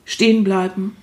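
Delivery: calm, unhurried poem recital; poem reading. Acted. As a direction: read it gently, line by line. Reads own short poem aloud.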